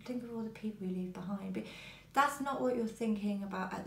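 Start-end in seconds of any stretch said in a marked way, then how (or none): 0.0-1.5 quiet scolding quote. Retold or imitated. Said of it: "They're like".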